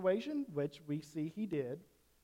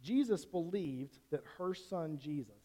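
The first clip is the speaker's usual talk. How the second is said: says the wrong name first, then catches it; preacher trips over "Jesus" instead of "Mary"; slip of the tongue. Real, not acted. Preacher misspeaks the name to the congregation, plain slip. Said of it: "I think I said that wrong".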